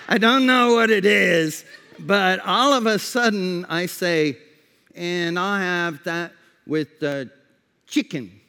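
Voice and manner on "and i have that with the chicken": put-on Mexican accent. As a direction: slip lightly into a Mexican accent. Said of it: "talking to me with an accent".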